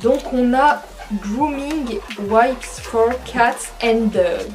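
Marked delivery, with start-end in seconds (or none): 1.2-4.5 slow, careful French-accented English; clumsy English accent. Real, not acted. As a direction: read the English brand name slowly in an awkward English accent. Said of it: "Oh là là, mon accent, désolé, il est pourri".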